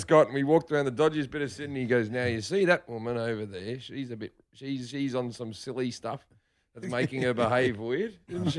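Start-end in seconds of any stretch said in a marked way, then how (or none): 2.1-8.6 soft, hushed nature-show narration; wildlife documentary voice. Retold or imitated. Dad showing his son the street, in a hushed nature-show voice. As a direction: point things out gently like a nature host. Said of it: "like a fucking guy doing a wildlife program".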